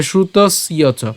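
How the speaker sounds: "শ্রুতস্য চ" slow, with a dental s and y; pronunciation demo. Shown as a demonstration. Teacher showing the same rule, "শ্রুতস্য চ" as shrutos-yo cho. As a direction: hold the s in "শ্রুতস্য চ", then ya. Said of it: "জফলার জন্য কি উচ্চারণ হবে".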